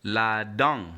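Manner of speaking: "la dent" as la-don, nasal vowel, silent t; "la dent" in careful French with nasal ending; French model pronunciation. Shown as a demonstration. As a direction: model "la dent" clearly for a learner.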